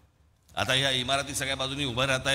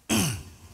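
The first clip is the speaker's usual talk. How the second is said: throat clearing; 3 semitones higher than usual. Real, not acted. Cough mentioned earlier.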